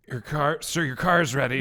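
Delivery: relaxed retake. Retold or imitated. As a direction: say it like talking to a friend. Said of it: "how would you say that?".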